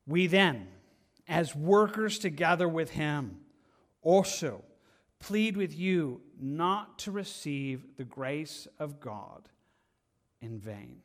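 slow, weighty rereading; scripture reading. Acted. Preacher rereads verse to church, slow pleading.

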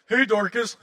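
playful mock hail; mock call out. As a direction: tease her name like a schoolkid. Calling out a mocked name.

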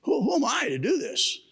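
high, startled whoa from Moses; alarmed protest. Retold or imitated. Moses protesting to God, high and startled. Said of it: "So Moses says".

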